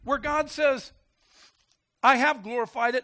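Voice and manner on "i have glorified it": loud, declaring voice of God; big preacher's proclamation; God's voice from heaven. Acted.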